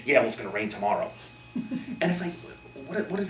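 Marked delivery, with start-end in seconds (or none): 0.1-1.1 lower, sour comeback; gloomy retort. Retold or imitated. A negative person answering a cheerful remark. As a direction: dampen the good mood. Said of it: "You ever speak to someone like that".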